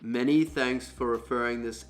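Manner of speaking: natural low chest voice. Shown as a demonstration. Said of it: "read passages in my deeper voice".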